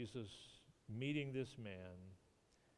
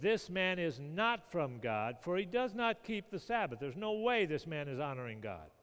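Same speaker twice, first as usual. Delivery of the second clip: Pharisees' accusation; 6 semitones higher, 6 dB louder than usual. Retold or imitated. Preacher voicing Pharisees' accusation.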